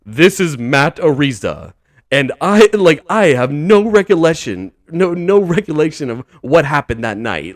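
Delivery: lightly hammed stiff statement voice; mock formal tone. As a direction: parody a man going suddenly formal for the recording. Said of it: "now he changes his tone".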